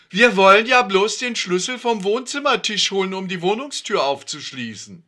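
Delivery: eager Siggi. A narrator's reading.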